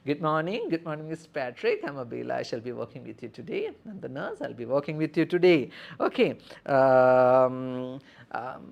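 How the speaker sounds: lightly voiced friendly nurse; nurse greeting patient. Shown as a demonstration. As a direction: greet the patient and explain your rounds. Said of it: "the introduction that you can give to your patient".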